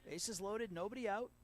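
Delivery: high, rising announcer hype; keyed-up setup. Real, not acted. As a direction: build the tension for the big at-bat. Setting up the big moment.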